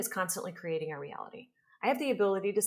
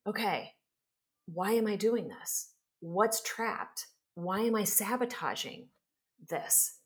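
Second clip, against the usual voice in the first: self-questioning; 3 semitones higher, slower than usual. Shown as a demonstration. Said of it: "and go".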